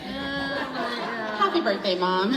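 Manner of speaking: slow, laughing birthday wish; laughing toast. Pretend. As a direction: toast her through laughter. Mock toast to mom.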